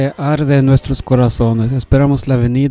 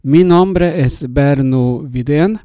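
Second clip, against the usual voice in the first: Swedish accent. Real, not acted. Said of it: "Yo soy sueco y hablo un poco español".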